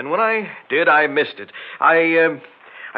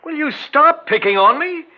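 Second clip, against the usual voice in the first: irritated snap; 11 semitones higher, 4 dB louder than usual. Acted. Snaps at questioning wife.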